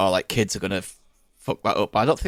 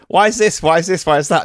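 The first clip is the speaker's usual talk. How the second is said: mock whiny questioning; 8 semitones higher, 6 dB louder than usual. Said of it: "you're going".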